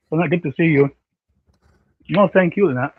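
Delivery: talking around a candy; words round a candy in the mouth; mouth full. Real, not acted. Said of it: "sorry, I had this little candy in my mouth".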